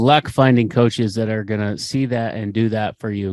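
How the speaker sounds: real frustration, punching the first words; frustrated. Real, not acted. Coach defending the community to prospective members, frustrated. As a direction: let your exasperation show. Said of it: "you can hear the frustration in my voice".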